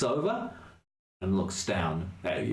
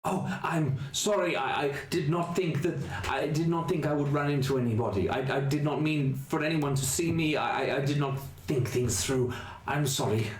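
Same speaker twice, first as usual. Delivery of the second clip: high, gentle ghoulish voice; apologetic ghoul reaching out a hand; Otto the ghoul; 6 semitones higher than usual. Acted. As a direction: speak as a timid, kindly monster.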